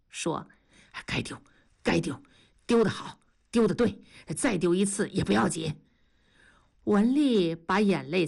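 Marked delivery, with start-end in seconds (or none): 1.0-5.7 哄劝. Acted. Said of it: "同志只好又哄".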